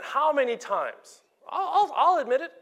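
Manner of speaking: high, fast, laughing through it; laughing admission. Real, not acted. Preacher confessing his own failings to the church, laughing.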